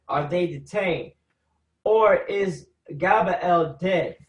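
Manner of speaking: slow, measured Bible reading; solemn reading aloud of the verse; scripture reading. Acted. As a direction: read it out like scripture.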